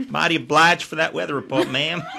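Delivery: weak, bad, put-on Southern American twang. Trying out American accents after a weather report, bad Southern American accent. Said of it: "One's even worse than yours".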